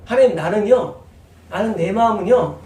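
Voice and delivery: ordinary talk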